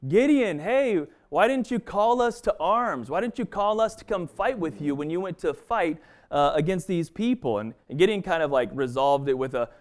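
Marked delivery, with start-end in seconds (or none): 0.1-7.6 mock the offended tribe, pitched up; complaining Ephraimites. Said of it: "came to Gideon and said".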